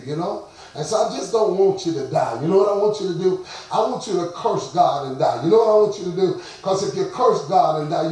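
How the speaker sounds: a hint of a scolding wife, loud at times; stressed-out wife pleading, then cursing; Job's wife. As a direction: nag him, calling his name loud. Preacher voices Job's wife.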